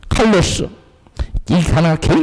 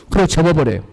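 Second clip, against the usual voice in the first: ordinary delivery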